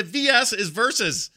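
"verses" slow, both syllables spelled out high; full versus. Shown as a demonstration. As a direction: drag out "verses" to make the point. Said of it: "Just give it the full verses".

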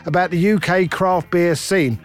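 punchy, even sponsor read; podcast ad read. Acted. Host thanking the beer sponsor, in ad-read style. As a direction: sell it with emphatic, rounded phrasing. Reads sponsor ad over music.

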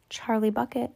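small, timid whisper; nervous whisper. A narrator's reading. Charlie giving his name to Mister Wonka, nervous whisper. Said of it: "nervous voice whispered".

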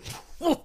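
high wordless creature sound; creature noise. Acted. The creature looks at its attacker, eerie wordless noise. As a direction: answer with a monster's wordless noise. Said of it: "the creature just looks at you and".

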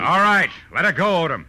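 detective commands killer to free woman; hard demand. Acted. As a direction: make him release her. Detective demands hostage release.

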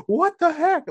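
high, loud startled shriek; mock panicked yelp at a revving car; retold freak-out. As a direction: squeal it like a startled teacher. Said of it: "Like, freaking out".

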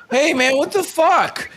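put-on high, loud drunken outburst; drunk man yelling. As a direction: play the sweaty drunk shouting back. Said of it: "and he says".

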